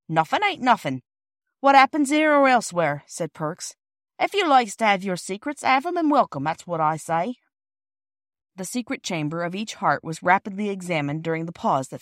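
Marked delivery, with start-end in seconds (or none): 0.1-7.4 raised, emphatic cockney porter voice; huffy porter. Acted. Porter rebuffing the children, loud and huffy. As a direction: proclaim it with wounded dignity.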